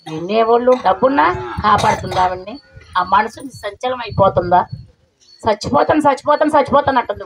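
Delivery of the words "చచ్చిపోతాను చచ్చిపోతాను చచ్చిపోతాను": high-pitched mock wail, repeated in a run; imitated tearful plea. Depressed mother phoning to say she will die, imitated high-pitched distress. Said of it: "phone చేసి ఏడుస్తుంది".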